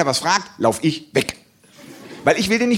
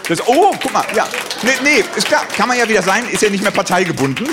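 excited; 4 semitones higher, 3 dB louder than usual. Real, not acted. Reacts to audience, louder.

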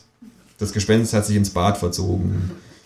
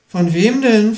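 high, louder kangaroo alarm; startled question; 12 semitones higher, 4 dB louder, slower than usual. A narrator's reading. Kangaroo asks the haunted ghost who chases it, startled. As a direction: asks in sudden fright. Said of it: "fragt das Känguru erschrocken".

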